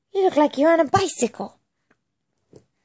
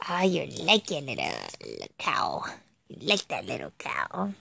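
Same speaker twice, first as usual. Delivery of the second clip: put-on soft, much lower whisper to the baby; tender hushed whisper to the baby; 13 semitones lower, 9 dB quieter than usual. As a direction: hush it like a secret over the toy cow. Whispering to baby about toy.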